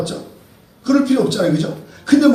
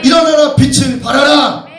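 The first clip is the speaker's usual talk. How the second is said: loud proclaiming cry; rousing call; 3 semitones higher, 4 dB louder than usual. Acted. Preacher urging the congregation to rise, loud rousing call.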